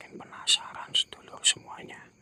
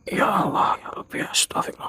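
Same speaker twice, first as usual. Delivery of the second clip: scared whisper; 8 dB louder than usual. Real, not acted. Frightened at the ghost.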